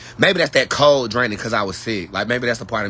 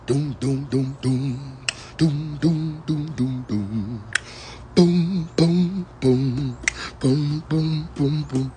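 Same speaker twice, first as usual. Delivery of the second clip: vocal beat; 2 semitones higher, 4 dB quieter, much slower than usual. Pretend. Beatboxing a club beat.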